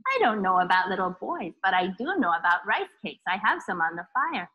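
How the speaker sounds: put-on low, sly old priest. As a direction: tempt her gently with rice cakes. Priest tricks witch.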